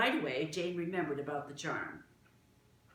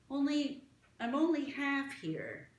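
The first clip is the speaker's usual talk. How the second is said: put-on lightly raised, eager girl's voice; a curious little girl, higher than the narration; young Martha; 10 semitones higher, 3 dB louder than usual. Martha asks the small gentleman, eager girl voice.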